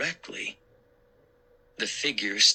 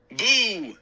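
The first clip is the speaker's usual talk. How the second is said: high, loud mock-scary boo; spring a playful scare; 9 semitones higher, 4 dB louder than usual. Actor in mummy costume cries boo to scare kids. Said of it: "it cried".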